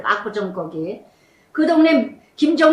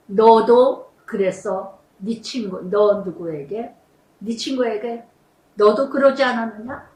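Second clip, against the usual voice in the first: hushed divine questioning; voice of the Spirit; 4 semitones lower, slower than usual. Retold or imitated. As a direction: let each word fall slowly as a gentle reproach. Inner voice of the Spirit.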